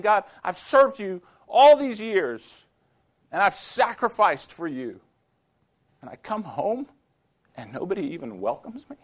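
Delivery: put-on a hurt old missionary protesting out loud; angry complaint to God. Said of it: "he got more and more angry".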